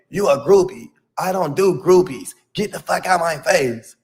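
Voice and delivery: heated retold rejection; dismissive rejection. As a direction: act out a dismissive brush-off of a fan. Retelling Shamar rejecting a fan.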